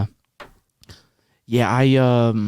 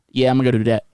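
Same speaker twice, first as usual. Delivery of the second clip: Louisiana accent; faster than usual. Shown as a demonstration. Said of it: "picked up a little bit of Louisiana".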